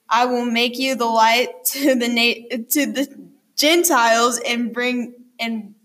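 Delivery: stumbling over words while reading aloud; stuttering while reading. Real, not acted. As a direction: trip and restart on the words. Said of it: "I stutter a lot, like, when I read".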